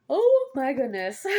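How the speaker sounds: words stretched by a yawn. Real, not acted. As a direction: talk through the end of a yawn. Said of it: "I start yawning".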